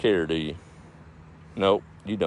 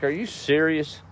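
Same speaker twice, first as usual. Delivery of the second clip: higher-pitched incredulous wife; retold disbelief; 9 semitones higher than usual. Wife hearing the dog is dead, mock disbelief. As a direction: act out the wife's shocked question. Wife reacts to blunt news.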